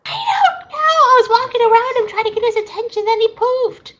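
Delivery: fast, high, laughing explanation; laughing panic. Real, not acted. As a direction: giggle through the excuse.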